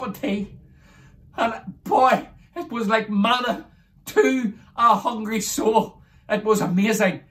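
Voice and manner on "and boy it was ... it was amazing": slow, swelling, louder preacher's praise; fervent testimony. Real, not acted. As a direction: let the wonder build like a sermon. Testimony climax about first meal.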